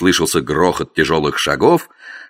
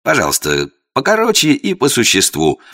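irritated outburst; 6 semitones higher than usual. Acted. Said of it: "не выдержав, сорвался я".

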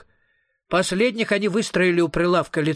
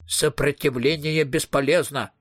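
robot voice. Acted. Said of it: "произнёс Клинт голосом робота".

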